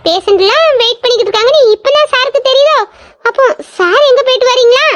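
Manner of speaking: mock-deferential reproach; sarcastic. Colleague taunting the late doctor about waiting patients, sarcastic. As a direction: needle him with put-on respect.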